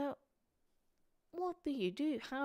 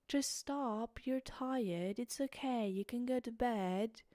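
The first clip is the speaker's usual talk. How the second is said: put-on higher, light British accent; 5 semitones higher, slower than usual. An inner voice telling her to go to bed, in a higher, light British accent. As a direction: soothe yourself in a mild British accent. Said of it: "what's going on with the accent".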